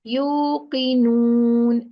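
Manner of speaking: "Yuqinun" drawn out slowly to a nasal final n; gunna on stopping. Shown as a demonstration. Teacher shows the stop with gunna, drawn-out gunna. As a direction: stretch "Yuqinun" and hum the last n. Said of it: "But when we stop".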